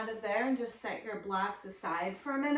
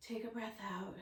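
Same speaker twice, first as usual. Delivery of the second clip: whispered breath cue; 9 dB quieter, faster than usual. Acted.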